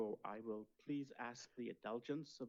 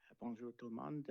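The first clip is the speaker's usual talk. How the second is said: English accent in French. Real, not acted. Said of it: "mon français c'est très pauvre".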